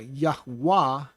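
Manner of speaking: Yahweh as yah-WAH, slow, second syllable stressed; stress on final syllable. Shown as a demonstration. Teacher showing how not to stress the name, Yahweh end-stressed as yah-WAH. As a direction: lean on the last syllable of Yahweh. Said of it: "the emphasis is on the final syllable".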